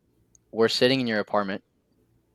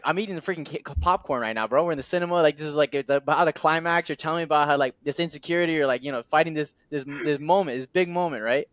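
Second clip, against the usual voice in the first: high and eager, caught up in the story; animated retelling of wanting to hear more; excited; 4 semitones higher than usual. Retold or imitated. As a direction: pitch raised, like a thrilled moviegoer. Continues excited retold protest.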